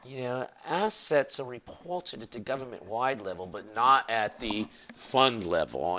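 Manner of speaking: playing the posher speaker, gently English; mock English accent. Teacher voicing an eloquent accountant in a mild English accent. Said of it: "should I do it with an English accent?".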